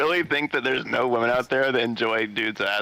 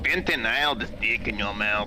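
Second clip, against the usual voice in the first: Spanish accent. Shown as a demonstration. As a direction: say it like a Spanish speaker. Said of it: "a Spanish accent, like a Diego accent".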